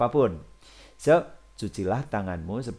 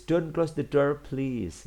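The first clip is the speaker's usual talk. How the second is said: higher, quicker, easing off on please; politer request; 5 semitones higher, slower than usual. Shown as a demonstration. Teacher shows pupils the politer version, higher, softening at the end. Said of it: "pengen lebih halus, boleh ditambah please".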